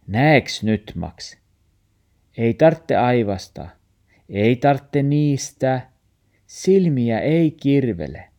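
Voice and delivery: reassuring. Acted. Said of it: "murfaari sanoo".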